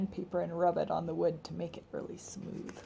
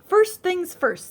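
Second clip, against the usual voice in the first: drawn-out, high and louder; slow, raised, matter-of-fact; slow, firm announcement; 10 semitones higher, 7 dB louder, much slower than usual. A narrator's reading. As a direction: set the order deliberately. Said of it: "said Amelia Bedelia".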